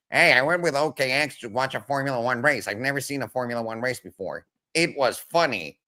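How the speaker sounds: high, nasal, slightly dopey guy voice; lightly voiced nasal guy, telling a story; nasal guy impression. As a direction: pitch it up into a nasal friend voice. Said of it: "Just a little nasal guy".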